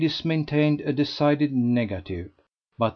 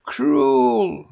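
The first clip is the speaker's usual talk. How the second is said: much higher, louder mock groan; a hammed-up lament; 13 semitones higher, 7 dB louder than usual. A narrator's reading. Lady Culmer groaning at Mrs Mountstuart's riddle. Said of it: "groaned Lady Culmer".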